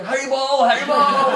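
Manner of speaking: high, loud, laughing joyful chant; crying out in bliss while being beaten; ecstatic cry. Acted. Advaita shouting in ecstasy while Mahaprabhu beats him.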